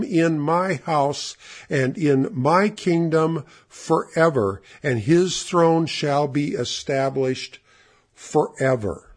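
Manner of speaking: slow, weighty stress on "kingdom", "throne" and "forever"; emphatic scripture reading. Shown as a demonstration. Preacher reading God's promise to the congregation, slow and emphatic. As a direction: read it deliberately, setting "forever" apart with a pause. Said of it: "Notice all the emphasis on kingdom".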